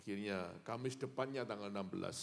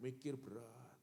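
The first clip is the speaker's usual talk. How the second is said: normal talking voice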